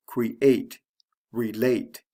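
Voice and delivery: "Create", "relate" as cre-ATE, re-LATE; stress on second syllable. Shown as a demonstration. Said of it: "usually falls on the second syllable".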